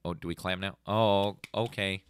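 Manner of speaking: unsure whether to clap; awkward crowd. Retold or imitated. Imitating an unsure audience wondering when to clap, awkward. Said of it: "they're like, awkwardly".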